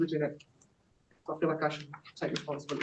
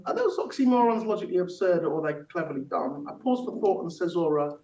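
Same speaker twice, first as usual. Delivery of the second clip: rhythmic spoken-word recital; poem performance; 3 semitones higher, 3 dB louder than usual. Acted. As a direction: perform it like a rap verse, on the beat. Performs own technique poem.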